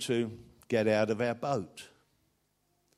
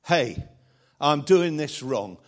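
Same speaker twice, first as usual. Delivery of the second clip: a mother telling God off, voice raised; retold mother's prayer; 2 semitones higher, 6 dB louder than usual. Old mother telling God she is done worrying, raised. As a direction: hand the burden back to God, boldly. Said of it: "I was praying and I said".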